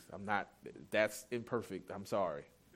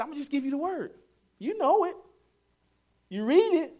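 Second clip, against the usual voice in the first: raised voice; 14 semitones higher, 7 dB louder than usual. Retold or imitated. Jesus voiced in sermon retelling.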